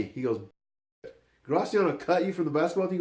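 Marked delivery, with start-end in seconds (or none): 1.5-3.0 high, incredulous question; imitated disbelief. Coach asking Brandon about being cut, incredulous. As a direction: question it as if astounded.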